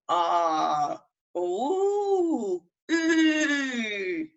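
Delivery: each vowel held and drawn out; long fada vowels. Shown as a demonstration. Demonstrates the three long vowels.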